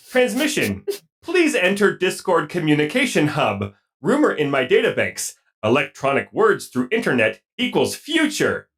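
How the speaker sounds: lightly voiced robot; stilted robot announcement. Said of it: "take it away, robot".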